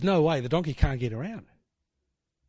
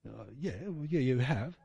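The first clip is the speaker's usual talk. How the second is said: much softer, sheepish mumbled concession; sheepish admission; 2 semitones lower, 6 dB quieter than usual. Retold or imitated. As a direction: grudgingly admit it.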